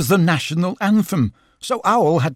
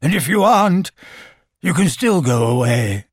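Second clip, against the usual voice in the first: louder call, dropping in pitch; shouting; 3 semitones higher, 3 dB louder than usual. A narrator's reading. Owl addressing the empty darkness, shouting. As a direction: call out, then settle into grumpy firmness. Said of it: "shouted Owl".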